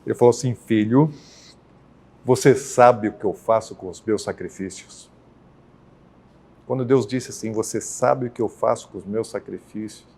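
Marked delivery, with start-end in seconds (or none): 0.6-5.1 measured and stern, no rush; heavy, very serious. Retold or imitated. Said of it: "num tom bem, é, pesado". 7.5-10.0 grave and softer, slightly lowered; solemn, understated divine voice; heavy, very serious. Retold or imitated. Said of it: "Deus falou mais seriamente comigo".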